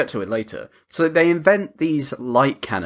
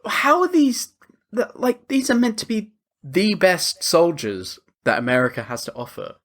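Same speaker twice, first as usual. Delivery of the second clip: incredulous rant; 4 semitones higher than usual. Retold or imitated. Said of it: "I was like".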